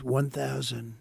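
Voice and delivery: lightly imitated cockpit computer; slow, measured altitude callout; a hint of automated announcement. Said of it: "It's a computer voice".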